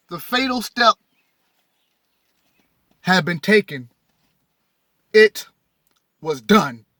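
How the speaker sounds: deliberate reading with weighty final pauses; dramatic reading aloud. Acted. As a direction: build to the fateful ending, pausing before it. Reads climax of text aloud.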